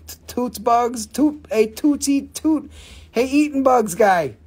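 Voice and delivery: sing-song calling. Real, not acted. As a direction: call the nickname up the scale.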